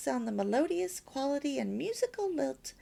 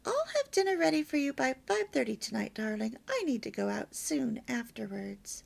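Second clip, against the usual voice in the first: sweet and loving. Shown as a demonstration. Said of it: "Say it as you kiss him goodbye".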